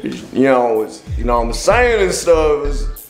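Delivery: put-on slurred rambling in a thick accent; barely intelligible, laid-back patter; hard to understand. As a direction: mumble through filler phrases, words melting together. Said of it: "What does that mean".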